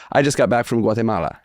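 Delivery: Guatemala in a Spanish accent. Shown as a demonstration. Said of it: "I was taught to say".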